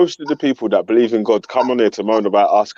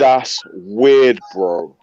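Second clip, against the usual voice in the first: SoCal surfer drawl; Californian accent; much slower than usual. Shown as a demonstration. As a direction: say it like a California bro. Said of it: "say in your best Californian voice".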